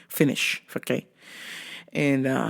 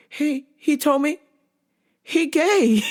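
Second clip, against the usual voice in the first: higher, wavering, a mock heartbroken teen; high whiny girl voice; 9 semitones higher, slower than usual. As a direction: play the upset cousin, pitched up and whiny. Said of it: "she goes".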